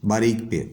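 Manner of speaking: پے with a thin Urdu p; no puff of air on the p of پے; thin, unaspirated P. Shown as a demonstration. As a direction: say پے as in Urdu Pakistan. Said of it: "ہم لوگ اس کو پے".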